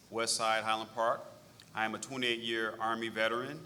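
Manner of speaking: ordinary talk, nothing marked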